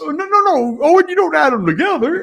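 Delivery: high, fast scolding; mock exasperated correction.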